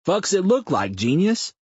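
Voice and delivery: a crude man mocking; rough sarcastic retort. A narrator's reading. Mouth sneers at Sam, rough loud sarcasm.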